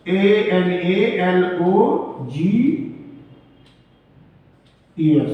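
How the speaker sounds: slow letter by letter spelling. Shown as a demonstration. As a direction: spell it out slowly for notes. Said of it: "एनालॉगस".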